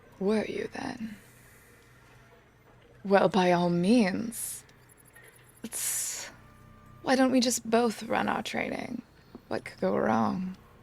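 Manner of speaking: ominous teasing tone. Answering a plan to run training together, in character: ominous teasing tone. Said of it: "You have the sort of tone that tells me many things could possibly go wrong".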